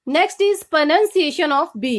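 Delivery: very slow, drawn-out heading; slow announcement. Shown as a demonstration. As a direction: spell out the title slowly, like a teacher. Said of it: "announcing the next letter".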